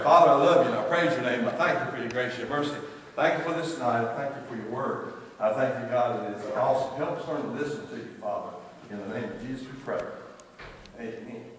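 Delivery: closing prayer. Acted. Pastor prays to end the service, earnest. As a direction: pray to close the service.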